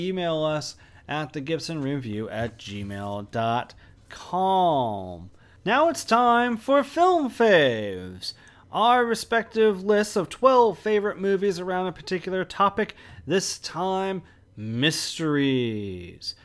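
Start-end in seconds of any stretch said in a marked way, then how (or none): 5.7-16.3 mysterious voice. Acted. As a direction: draw it out like a mystery host. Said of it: "you sound very mysterious".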